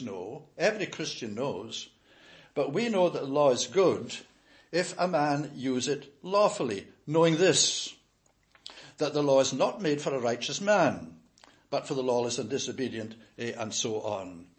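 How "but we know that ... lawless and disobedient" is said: measured, solemn reading of the verses; scripture reading. Acted. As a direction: read it out like a preacher at the pulpit. Rereads the verses aloud.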